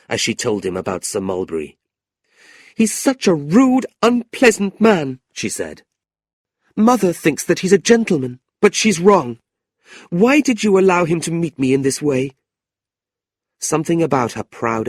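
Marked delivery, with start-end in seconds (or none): 2.7-5.2 high, slow and loud, proud indignation; a young niece burning with anger, voice pitched up high; angry young woman. Acted. Niece complaining to her uncle, high and indignant. Kate angry at Sir Mulberry. 6.7-12.3 put-on a young niece burning with anger, voice pitched up high; angry young woman. Niece complaining to her uncle, high and indignant.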